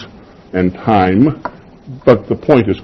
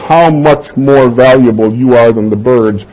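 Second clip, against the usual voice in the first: "How much more valuable" asserted with a falling end; emphatic statement. Acted. Preacher explaining what Jesus meant, emphatic statement. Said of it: "He's making an emphatic statement".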